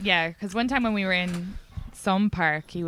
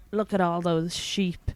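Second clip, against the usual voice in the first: slow, lightly mocking pronouncement; mock profound; 3 semitones lower, 3 dB quieter, slower than usual. Boyfriend pointing at New York, slow mock-profound. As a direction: drag it out like a prophet. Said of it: "and he was like".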